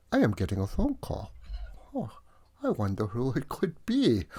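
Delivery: hushed aside; whispering. Acted. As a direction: whisper it to the audience. Phone call interrupts show.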